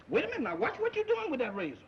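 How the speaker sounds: frightened man pleading with a sleepwalker; panicky pleading. Acted. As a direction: beg him to drop the razor. Man pleads with a sleepwalker holding a razor.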